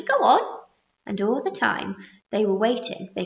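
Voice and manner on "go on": high, loud frantic urging; frantic cry. A narrator's reading. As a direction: beg him to go on. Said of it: "they cried frantically".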